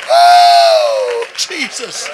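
high, loud ecstatic cries to God; overcome, crying out. Real, not acted. Preacher overwhelmed by the scripture, crying out in rapture. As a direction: let the feeling break through the words.

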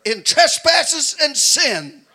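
loud, high shouting sermon; preaching at full force. Acted. Preacher urging congregation to crucify the flesh, shouting. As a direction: build to a hollering preacher's climax.

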